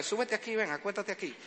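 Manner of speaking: soft weary offer to the son; resigned invitation. Retold or imitated. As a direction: invite him up, already resigned. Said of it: "Después entendí que como él se sana".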